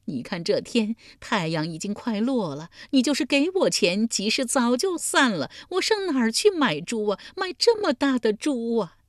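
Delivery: high-pitched tearful wailing; crying while talking. A narrator's reading. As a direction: climb into a sobbing old woman's lament. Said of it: "老妪一边哭一边说". (一边哭一边高声诉苦)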